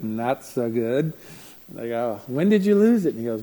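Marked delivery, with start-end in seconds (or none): 0.0-1.1 put-on sheepish kid. Remorseful kid's reply. 2.3-3.1 pointed question. Retold or imitated. Counselor questioning the kid.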